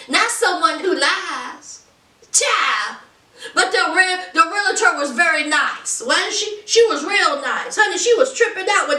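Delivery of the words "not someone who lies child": mock shout. Imagined realtor scolding Robert.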